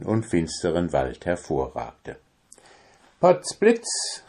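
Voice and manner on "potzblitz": high startled exclamation; surprised cry. Acted. Tailor spotting a tower, crying out high. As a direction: burst out in amazement. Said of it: "rief der Schneider".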